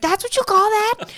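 high, loud mock disbelief; retold incredulity. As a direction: act out his baffled outburst. Retelling film character's incredulous reply.

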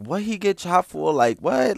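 loud, high outraged question; loud indignant crowd. Retold or imitated. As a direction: yell it like a crowd. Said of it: "The whole crowd behind me was like".

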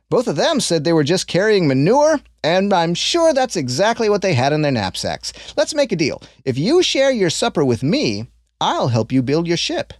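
lightly voiced kindly old man; a hint of an old stranger, curious; old man sizing up the boy's honesty, lightly voiced. Old man speaks to Ashlad.

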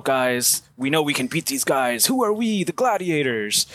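lightly acted rousing team talk, pitch climbing; motivational coach speech. Imitating Robert Duvall's coach addressing the Gladiators, motivational. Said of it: "giving a motivational speech to his team".

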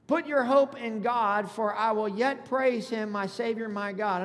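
slow, emphatic preacher's reading; scripture read aloud. Acted. Pastor reading verse five to congregation, slow emphatic scripture reading. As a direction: draw out each question of the verse.

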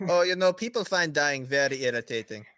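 a hint of a smooth-talking villain; lightly voiced breezy villain. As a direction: play the villain mildly put out. Plays Murdoch, the businessman villain.

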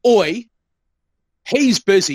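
retold sharp telling-off. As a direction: re-enact pulling up a pushy driver. Retelling scolding a pushy driver.

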